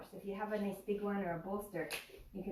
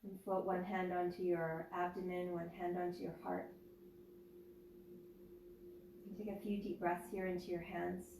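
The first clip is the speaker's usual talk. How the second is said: guided meditation. Acted. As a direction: ease them into stillness, unhurried. Leads a yoga nidra meditation.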